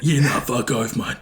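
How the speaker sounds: lightly put-on character voice; a hint of a blunt Kiwi bloke; Johnny. Showing the interviewer how his character Johnny speaks, lightly put-on character voice. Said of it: "That's what he speaks like".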